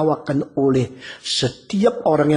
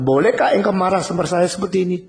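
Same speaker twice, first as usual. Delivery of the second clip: put-on father scolding child; 3 semitones higher, faster than usual. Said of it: "seorang ayah sudah bicara sama anak".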